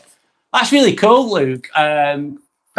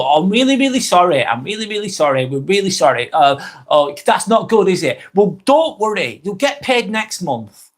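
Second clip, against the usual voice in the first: higher, hammed-up fake apology, slowing down at the end; imitating a fake-sorry manager; mock apologetic employer; 4 semitones higher than usual. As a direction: parrot the boss's empty sorry. Mocking employer's excuses.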